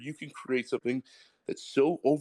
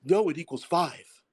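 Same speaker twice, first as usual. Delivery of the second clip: higher, slow, mocking a stubborn denier; 7 semitones higher, 4 dB louder than usual. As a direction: play the person who won't accept facts, with a mocking edge. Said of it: "he's like".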